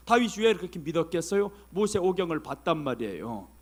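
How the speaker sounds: normal talking voice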